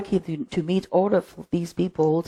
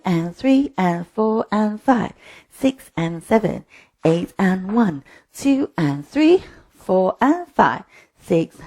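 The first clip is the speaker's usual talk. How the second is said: dance teacher counting out slowly; measured, slow step count with lifted starts; slower than usual. Shown as a demonstration. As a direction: count the beats slowly, stretching them. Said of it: "How about with the count slowly?".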